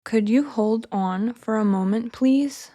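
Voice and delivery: slow, careful model line; slowly first. Shown as a demonstration. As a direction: stretch it out for learners to echo. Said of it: "I'll say each one slowly first".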